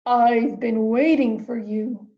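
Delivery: slow, mysterious octopus voice; octopus deep voice. Acted. Wise octopus greets Rainbow fish in the dark cave, slow and mysterious. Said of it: "said the octopus with a deep voice".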